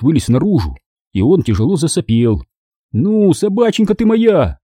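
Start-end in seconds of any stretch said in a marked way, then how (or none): 2.9-4.6 high, cooing coax; tenderest coaxing. A narrator's reading. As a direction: sweet-talk a dog in a lifted voice. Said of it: "нежнейшим голосом пел я". (нежно сюсюкает с собакой)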